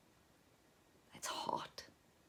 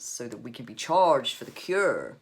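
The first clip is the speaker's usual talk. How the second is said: raised voice, holding forth; lightly voiced loud pronouncement; mildly ranting; 8 dB louder than usual. A narrator's reading. Sick father holds forth on disease, mildly ranting. Father's quoted rant continues.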